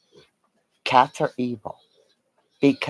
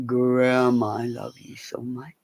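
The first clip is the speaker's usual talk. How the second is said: much softer whispered dog voice; a hushed puppy's love note; 6 dB quieter than usual. Pretend. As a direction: breathe it like a sweet puppy. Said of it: "you just hear one going".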